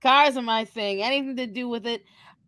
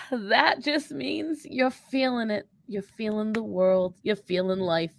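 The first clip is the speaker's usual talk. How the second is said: mock soothing; 3 dB quieter, slower than usual. Cohost mock-consoles the suffering host.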